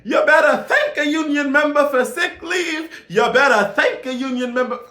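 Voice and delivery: mocking black preacher, high and booming. Imitating a politician turned preacher for the union crowd, hammed-up loud sermon. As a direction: belt it like a fiery church sermon. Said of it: "the one where she became a black preacher".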